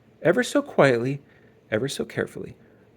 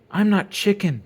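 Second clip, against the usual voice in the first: insisting; 8 semitones higher, 4 dB louder than usual. A narrator's reading. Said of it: "Brother insisted".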